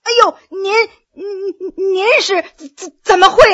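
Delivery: high-pitched, halting shock; startled, tripping over the words; stunned stammer. A narrator's reading. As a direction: stammer as if caught open-mouthed. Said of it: "惊得他张大了嘴巴".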